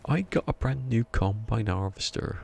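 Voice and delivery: drawn-out Somerset singalong; playful West Country yokel lilt; yokel Somerset accent. Shown as a demonstration. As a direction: croon it like a Somerset farmer. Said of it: "do a good yokel Somerset accent".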